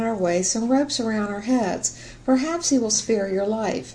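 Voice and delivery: ordinary delivery, nothing marked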